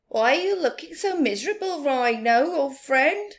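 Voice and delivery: high, loud and fast; fast high baboon voice; cheeky Baboon. Acted. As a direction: tease him like a playful monkey.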